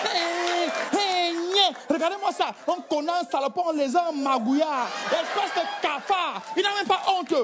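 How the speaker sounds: hammed-up scolding tirade; mock furious wife. Wife mocking her husband's manhood, hammed-up fury. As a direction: pile on the insults, mocking him. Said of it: "La femme prend ta colère".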